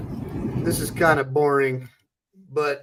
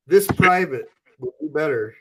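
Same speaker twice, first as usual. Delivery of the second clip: lightly voiced recruit answering a sergeant; drill sergeant; 3 dB louder than usual. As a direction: snap back like a private at attention. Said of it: "Your best ain't good enough, Marine".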